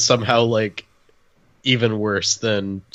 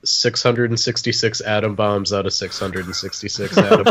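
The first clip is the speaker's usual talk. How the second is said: laughing through it. Real, not acted. Joke rating, cracks up.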